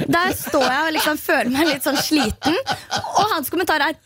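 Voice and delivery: ordinary delivery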